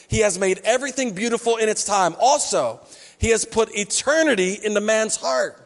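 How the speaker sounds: measured read of the verse, every word weighed; scripture reading. Shown as a demonstration. Pastor reads the verse aloud to his church, measured. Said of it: "Ecclesiastes three eleven says this".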